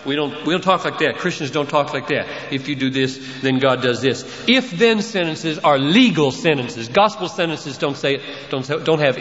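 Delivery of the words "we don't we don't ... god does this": mock objector. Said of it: "It says".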